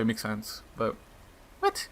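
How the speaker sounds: usual speaking voice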